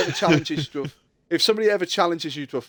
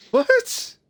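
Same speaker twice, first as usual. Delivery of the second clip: much higher, rising yelp of disbelief; mock baffled what; 3 dB louder than usual. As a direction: sound stunned and confused. Mocking the baffled reaction.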